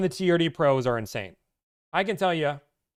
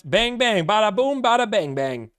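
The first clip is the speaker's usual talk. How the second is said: mock gunfire; 7 semitones higher, 5 dB louder, slower than usual. Gun sound play about Texas.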